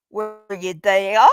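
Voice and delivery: hammy, half-failed Aussie catchphrase; Aussie accent. Acted. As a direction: have a poor go at an Aussie accent. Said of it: "I can't do an O C accent".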